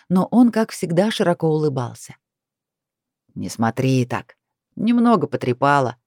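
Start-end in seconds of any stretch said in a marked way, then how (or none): 3.3-6.0 casual. Acted. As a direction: brush it off lightly. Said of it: "небрежно махнул он рукой".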